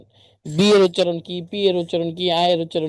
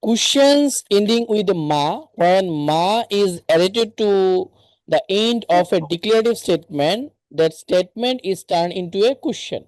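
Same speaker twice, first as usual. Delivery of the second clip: reading a grammar rule aloud, slowly and evenly; slow textbook reading; much slower than usual. Acted. Teacher reads a grammar rule slowly to her online class. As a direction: spell out the rule slowly for learners.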